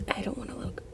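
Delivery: scared gamer hiding in a locker, barely murmuring; fading to a hush. Real, not acted. Fading repeat while hiding.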